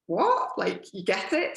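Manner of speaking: put-on a kid startled that mum gets it; quizzical child. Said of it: "this quizzical look".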